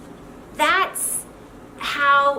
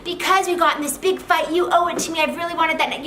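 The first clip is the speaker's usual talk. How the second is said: emotional justifying; 4 semitones higher than usual. Shown as a demonstration. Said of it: "Now, you don't say".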